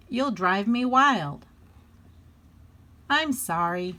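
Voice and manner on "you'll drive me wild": higher, louder, mildly exasperated; mother holding back a yell, voice rising. A narrator's reading. Mother nearing the end of patience.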